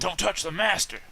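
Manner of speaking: high, loud protective cry; hammed-up servant yell; mock shout. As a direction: leap in to guard the master. Player shouts as servant Morden.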